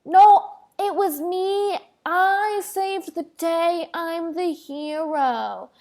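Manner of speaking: slow, insistent hammed-up whine; mock Elsa protesting. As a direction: play Elsa claiming the credit. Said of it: "she'd go".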